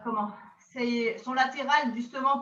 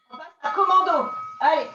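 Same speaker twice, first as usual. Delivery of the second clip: calling out; 2 semitones higher, 5 dB louder than usual. Real, not acted. Coach calling next exercise.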